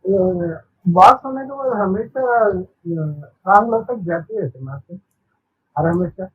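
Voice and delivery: echoing voice on the call. Real, not acted. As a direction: voice with a heavy echo. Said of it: "इको आ रहा है".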